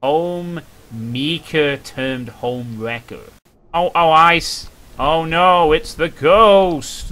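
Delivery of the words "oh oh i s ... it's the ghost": startled alarm. Real, not acted. Sees the ghost.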